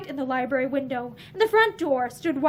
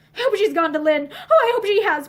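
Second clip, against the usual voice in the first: louder, half laugh half cry; laughing through tears; 5 semitones higher, 5 dB louder than usual. A narrator's reading. Violet to Joyce about Pansy, laughing and crying. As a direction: let the relief burst out.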